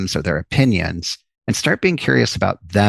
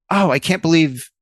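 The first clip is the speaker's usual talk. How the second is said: rude takeover; 3 semitones higher than usual. Shown as a demonstration. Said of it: "That's what feels rude".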